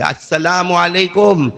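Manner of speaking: a slow, strong salaam called back; loud reply. Retold or imitated. Bilal calls back from inside, loud and slow. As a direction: answer the greeting with full voice. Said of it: "اندر سے بہت زور سے آواز آئی".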